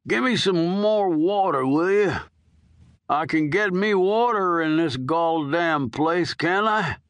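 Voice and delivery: lightly voiced old prisoner begging; dying old convict. Old inmate coaxing the nurse for a smoke, lightly voiced. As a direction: wheedle like a hard old con, only a hint of a character voice. Earl asks for water.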